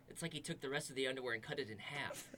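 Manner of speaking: unvoiced whispered aside. Real, not acted. Aside while searching backpack.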